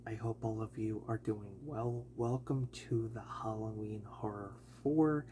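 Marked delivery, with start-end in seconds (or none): none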